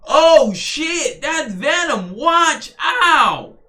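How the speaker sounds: high, loud cartoon alarm; mock panic. Voicing Luffy spotting the attack, high panicked shout. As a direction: yelp the warning like a startled hero. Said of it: "Luffy's like".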